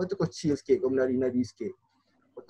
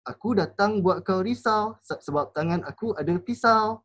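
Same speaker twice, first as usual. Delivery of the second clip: pitched higher, sing-song punchline; wrong intonation; 5 semitones higher than usual. Shown as a demonstration. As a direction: deliver the threat with mismatched high lilt. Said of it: "energy kuat sikit tapi intonasi lain. Tak kena".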